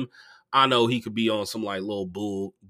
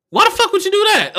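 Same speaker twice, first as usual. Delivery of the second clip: very high, loud incredulous shout; outraged yell; 10 dB louder, faster than usual. Retold or imitated. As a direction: yell it in comic disbelief. Retelling outrage at friend's mistake.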